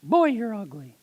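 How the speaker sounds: high-pitched cheeky parrot voice; rude parrot. Acted. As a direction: squawk an insult like a parrot. Voices parrot insulting the lady.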